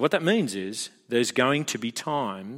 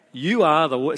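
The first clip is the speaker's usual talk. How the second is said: put-on slightly louder accusing kid; mock accusation; 3 semitones higher, 6 dB louder than usual. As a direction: fling it at dad like an accusation. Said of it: "so it's an accusation".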